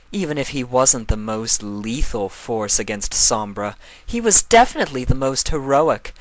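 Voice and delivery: Nightmare Moon. Acted. Nightmare Moon correcting Chrysalis, a regal, lecturing voice. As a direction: correct them with cool authority.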